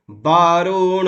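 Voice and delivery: वरुणो said as बरुणो, no syllable held; don't dwell on any syllable of वरुणो; quick short वरुणो. Shown as a demonstration. Teacher showing students not to hold the single letters. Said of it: "इस पर समय नहीं देना है".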